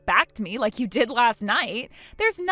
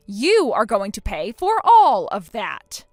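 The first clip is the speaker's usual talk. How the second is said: louder, slow, hard; stern threat; 6 dB louder, slower than usual. Acted. Bride warning the sister-in-law she will pay, slow and stern. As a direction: spell out each word as a verdict.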